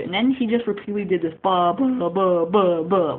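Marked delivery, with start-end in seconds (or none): 1.4-3.2 loud, repeated mock bleats; sheep-like bleating. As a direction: imitate the kid bleating like a sheep. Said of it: "like a sheep".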